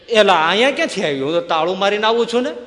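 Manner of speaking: put-on an uncle shocked to find the boy out; startled uncle. Uncle finds locked-up nephew at the well, startled.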